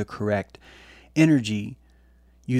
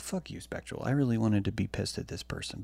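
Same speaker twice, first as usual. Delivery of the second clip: hushed, breathy under-the-breath curse; muttered curse; 5 dB quieter than usual. Retold or imitated. Retelling his reply to a friend, hushed and unvoiced. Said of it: "And I'm just like".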